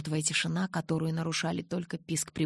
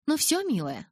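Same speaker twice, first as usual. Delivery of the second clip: sweet nurse; 9 semitones higher, 4 dB louder than usual. A narrator's reading.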